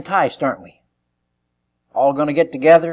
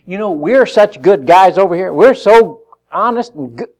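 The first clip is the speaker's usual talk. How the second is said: mock self-praise; 6 semitones higher, 9 dB louder than usual. Mocking the gang's self-image.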